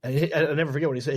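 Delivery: ordinary talk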